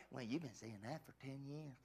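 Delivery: a lightly voiced taunting devil, sneering; mocking devil voice. Preacher voicing the devil's taunt about the church building. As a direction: needle him like the devil would. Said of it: "And I just said, "Shut up, devil".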